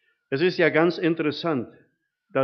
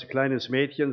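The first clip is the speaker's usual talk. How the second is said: usual speaking voice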